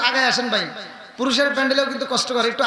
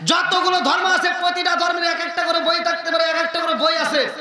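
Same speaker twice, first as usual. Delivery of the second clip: raised, higher-pitched sermon voice; impassioned preaching; 4 semitones higher than usual. Real, not acted. Preacher explaining holy books to the crowd, proclaiming.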